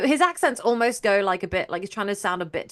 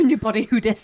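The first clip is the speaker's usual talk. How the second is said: laughing meme quote; 4 dB louder than usual. Pretend. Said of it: "I love doing that".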